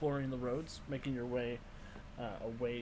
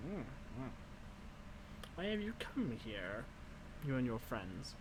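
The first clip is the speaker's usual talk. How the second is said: put-on wizened old crone; 7 dB quieter than usual. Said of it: "wizened old crone voice".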